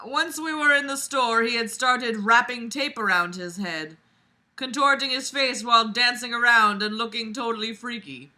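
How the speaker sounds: projected read-aloud voice; story narration. A narrator's reading. Vlogger reading a story aloud to listeners, projected narration. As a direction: read the fic out clearly.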